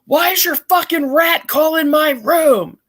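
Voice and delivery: high, drawn-out furious yell, re-enacted; angry yelling. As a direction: yell it slowly and high, word by word, outraged. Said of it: "and I'm yelling".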